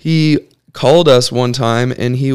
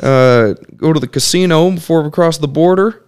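put-on higher, quick old-timer voice; imitating great uncle; 5 semitones higher than usual. Great uncle planning casino stop, higher voice. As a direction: pitch up and plan the road trip eagerly. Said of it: "I just do all their voices".

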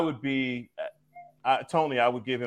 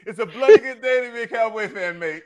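hammed-up British accent, higher; a bad British accent, pitched up; 9 semitones higher, 3 dB louder than usual. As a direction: do a cheesy British bloke for the Cowboys. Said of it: "the second time you tried to do a British accent".

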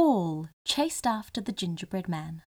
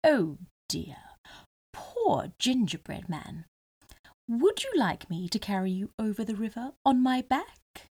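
friendly voice. Acted. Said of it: "he said in a friendly voice".

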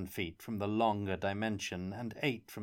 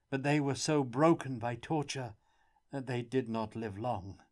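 lightly voiced prisoner; 3 semitones higher than usual. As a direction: tell it like a weary, grieving captive.

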